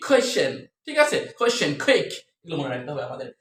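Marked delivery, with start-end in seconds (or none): 0.1-0.5 "কোয়েশ্চেন" opening on a breathy kh; aspirated K. Shown as a demonstration. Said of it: "উচ্চারণ কিন্তু একই রকম". 1.4-2.1 "কোয়েশ্চেন, কুইক" opening on a breathy kh; aspirated K. Shown as a demonstration. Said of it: "উচ্চারণ কিন্তু একই রকম".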